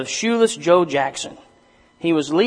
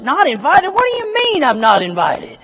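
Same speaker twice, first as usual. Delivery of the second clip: high, loud, indignant disbelief; hammed-up outrage, much higher and louder; more upset; 11 semitones higher, 4 dB louder than usual. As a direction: squeal it out in hurt outrage. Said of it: "Ray gets even more upset".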